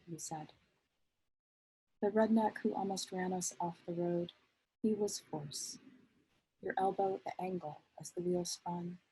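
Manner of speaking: measured poetry recital, pausing at line breaks; poem reading. Acted. Poet reads a letter-poem to an audience, measured recital. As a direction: let each image stand in its own phrase.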